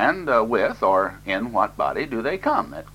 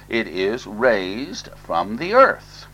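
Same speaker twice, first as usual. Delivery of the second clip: "raised" stretched out slowly for emphasis; stress on raised; much slower than usual. Real, not acted. Preacher correcting a mistaken idea about the body, stress on "raised". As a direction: dwell on the word "raised". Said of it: "I must emphasize this word raised".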